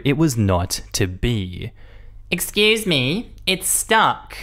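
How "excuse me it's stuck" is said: high slow impatient customer voice; whiny demanding shopper; entitled customer. Retold or imitated. Rude customer at self-checkout.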